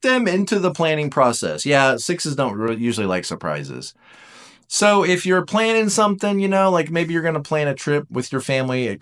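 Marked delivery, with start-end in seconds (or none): none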